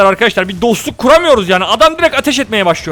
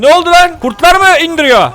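alarmed call; 5 semitones higher, 3 dB louder than usual. Real, not acted. Hears cries for help.

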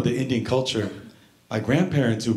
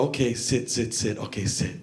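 gentle coaxing; 5 semitones lower, 6 dB quieter than usual. Acted. Acts guiding grandpa onto commode.

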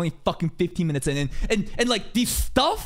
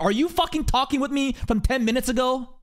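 ranting at chat; 6 semitones higher than usual. Real, not acted. Streamer ranting at mobile viewers ten minutes behind, building exasperation. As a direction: vent at the lagging viewers, climbing to a yell.

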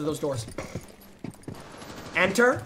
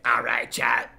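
hushed aside; whisper; 9 semitones lower than usual. Real, not acted. Streamer whispering an aside to chat, hushed.

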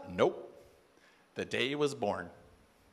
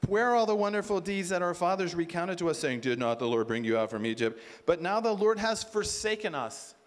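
sarcastic quote; 4 dB louder than usual. Acted. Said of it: "Sarcastically, he says".

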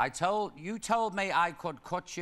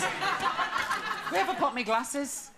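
mock flustered; 13 semitones higher, much slower than usual. Comic fluster about glasses.

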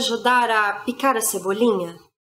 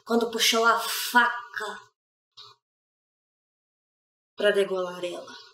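slow, measured tragic accusation; grave reproach, falling away at the end; accusing mother; 2 semitones lower, 3 dB quieter than usual. Acted. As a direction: question the guilty husband with weighted words. Accuses husband of killing daughter.

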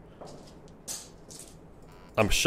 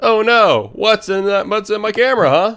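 shaken; 8 semitones higher, 3 dB louder than usual. Real, not acted. Reacting to jumpscare.

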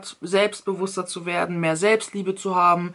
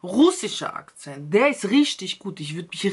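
russischer Akzent. Shown as a demonstration. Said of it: "dieser russische Akzent".

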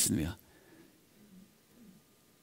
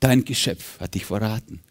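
mocking Satan. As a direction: taunt Jesus with scorn, lightly voiced. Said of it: "er lachte höhnisch und sagte".

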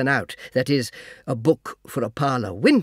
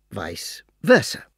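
whispered aside; 5 semitones lower, slower than usual. A narrator's reading. Sly aside, unvoiced.

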